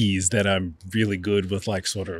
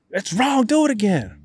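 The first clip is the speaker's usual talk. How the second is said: higher, louder mock correction from the teacher; teacher's sharp correction; 11 semitones higher, 4 dB louder than usual. Strict professor cutting off the class, higher and louder. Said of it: "And he goes".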